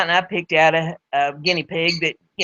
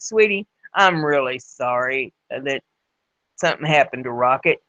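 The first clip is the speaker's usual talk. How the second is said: comforting; 4 semitones lower than usual. Acted. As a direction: soothe a grieving child. Comforting the grieving little boy.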